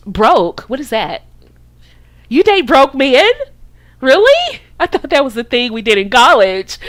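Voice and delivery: clutch the idea like it's beneath you; bougie disbelief. Shown as a demonstration. Coach playing a woman hearing of broke men, bougie disbelief. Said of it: "You gotta get bougie with it".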